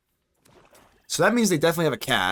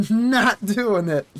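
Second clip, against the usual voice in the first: slow, higher put-on voice drawing out "Not doing it."; mock refusal; 7 semitones higher, much slower than usual. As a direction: stretch "Not doing it." out slowly in a silly voice.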